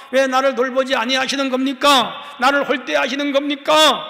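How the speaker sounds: a preacher acting out a hurt believer's protest to God, rising; pleading protest to God. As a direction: argue with God, your voice rising line by line. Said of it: "이렇게 하나님께 따지는 것도".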